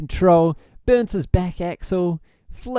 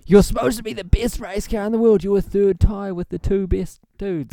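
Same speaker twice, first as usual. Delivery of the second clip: Jason Statham impression; 6 semitones higher than usual. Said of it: "Your Jason Statham impression".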